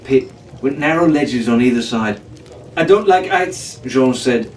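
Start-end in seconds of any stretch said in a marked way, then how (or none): 2.8-3.8 nervous. Acted. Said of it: "looking nervously over the edge".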